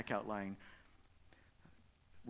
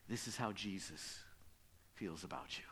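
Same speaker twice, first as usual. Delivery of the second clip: softer, lower, fading into a whisper; hushed whisper; 6 semitones lower, 8 dB quieter than usual. Acted. Preacher closing the story for the congregation, whispering. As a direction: let it sink in, barely breathed.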